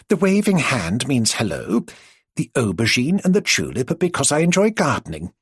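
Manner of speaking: patient, overly simple explaining; lightly voiced, like a patient teacher; explaining to a child. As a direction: spell it out as if to a small child. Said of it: "as if explaining to a small child".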